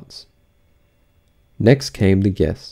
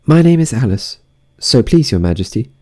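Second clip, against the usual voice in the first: very polite; 3 semitones higher than usual. A narrator's reading. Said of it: "said Alice very politely".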